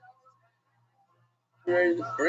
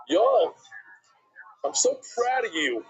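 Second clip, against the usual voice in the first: gushing; 5 semitones higher, slower than usual. Retold or imitated. Father gushing to teenage son.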